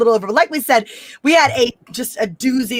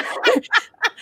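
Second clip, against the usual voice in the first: high burst of laughter; laughs; 11 semitones higher than usual. Real, not acted. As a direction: crack up at the failed accent. Laughing at own accent.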